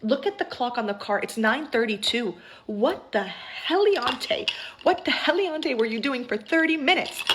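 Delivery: retold indignant telling-off; mildly re-enacted angry outburst; pissed off. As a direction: scold in building disbelief, drawing out the key words. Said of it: "And I got pissed".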